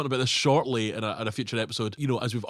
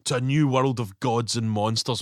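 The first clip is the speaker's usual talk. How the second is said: slow, lower sinister villain line; evil guy quote; 4 semitones lower, slower than usual. Retold or imitated. Quoting Pretorius's toast, slow and sinister. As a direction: savour it like a mad scientist. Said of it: "that's a great phrase".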